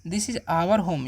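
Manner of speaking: "This is our home" said very slowly, word by word; slow teacher dictation. Shown as a demonstration. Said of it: "तो क्या बोलेगा?".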